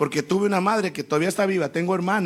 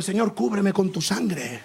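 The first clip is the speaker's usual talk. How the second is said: laughing mock prayer; slower than usual.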